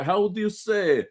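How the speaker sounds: an American's hammy fake Russian accent; groping for words in mock Russian; hack Russian accent. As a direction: put on a halting, cliché Russian accent. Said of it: "anytime an American does a Russian accent".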